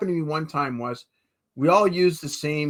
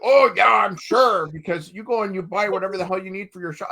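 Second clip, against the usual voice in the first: mock angry wife. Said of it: "she was pissed".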